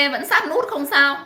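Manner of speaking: chuckling through the words, slowly; laughing. Real, not acted. Laughing as she reassures viewers about the count. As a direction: let the laugh carry the words.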